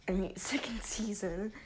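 laughing. Real, not acted. Correcting his own slip.

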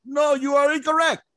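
put-on high Vietnamese-accented put-down. Sergeant major telling Lopez he's wrong, Vietnamese accent.

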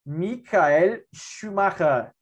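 put-on Michael Schumacher with a German accent. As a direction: say the name like a German would. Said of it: "Gostou do sotaque alemão?".

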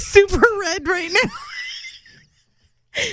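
muffled, slow, through her hand; hand over mouth. Real, not acted. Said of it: "I have my hand over my mouth".

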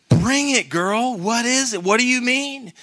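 calling out high to urge her on; excited. Retold or imitated. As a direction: hype her up like a cheering coach. Cheering the woman on excitedly.

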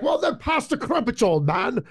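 put-on high-pitched heckling wisecrack, falling on "old man"; Dave character impression. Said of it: "The Dave character".

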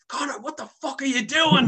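high-pitched mock scolding; imitating outraged mother. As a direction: act out a mother's shocked telling-off. Mother catches him on the landing.

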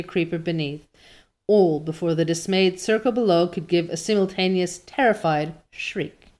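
measured, expressive storytelling; story narration. A narrator's reading. Reader telling listeners of Anne's fall, story narration. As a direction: read it like an audiobook narrator. Reads the novel aloud.

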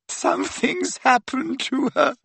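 high-pitched acted sob; sobbing. A narrator's reading. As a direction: wail it as a distraught friend. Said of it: "sobbed Leanne".

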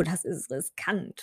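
slow hushed whisper. Acted. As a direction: breathe it out, barely audible. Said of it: "flüsterte sie".

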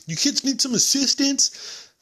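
squeaky slow-motion cop voice; exaggerated cop impression. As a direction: stretch every word like the cop. Quoting the cop again.

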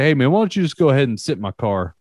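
fast, easygoing cop voice; casual cop. Retold or imitated. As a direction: brush it off breezily. Cop waves the drunk off.

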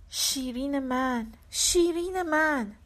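drawn-out sobbing lament for Shirin; tearful lament. Acted.

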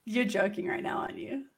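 stunned whisper. Real, not acted. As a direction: breathe it in disbelief. Disbelieving reply.

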